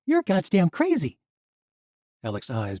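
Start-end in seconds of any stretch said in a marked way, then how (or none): 0.0-1.2 loud, high furious yell; angry. A narrator's reading. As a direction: yell it in rage. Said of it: "the angrier she grew".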